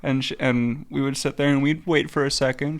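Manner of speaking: ordinary delivery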